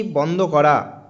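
বন্ধ করা stretched out very slowly; slow dictation. Shown as a demonstration. Teacher slowly dictating বন্ধ করা to students. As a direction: draw out বন্ধ করা for the notebook. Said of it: "অবশ্যই কিন্তু খাতায় নোট ডাউন করবে".

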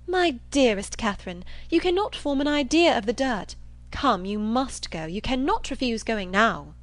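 mildly gushing, insistent persuasion; coaxing Isabella. Acted. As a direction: lean on her with affectionate pressure. Isabella coaxes Catherine.

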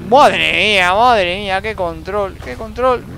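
loud amazed cry; excited exclaim. Real, not acted. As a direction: marvel out loud. Asombro al conducir. (exclamación asombrada)

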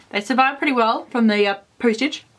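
talking with a mouthful of chips; mouth full. Real, not acted. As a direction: speak around a mouthful of food. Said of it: "I still have Old Bay chips in my mouth".

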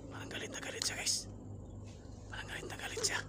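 hushed whisper to viewers. Real, not acted. Whispering to viewers in a haunted house. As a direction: whisper so nothing hears you.

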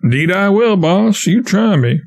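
put-on a boy pleading with the raftsman, eagerly; eager promise. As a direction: promise hard to be let go.

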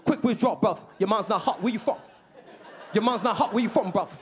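put-on British street accent, quick bursts; excited British local. London local to a visiting American, excited British accent. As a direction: pepper him with questions in a London accent. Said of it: "They were very excited by my accent".

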